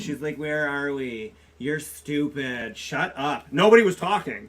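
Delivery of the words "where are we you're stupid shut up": lightly voiced childlike drunk; a hint of a sulky drunk, words drawn out; drunk ex-wife. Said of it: "this is how she talks".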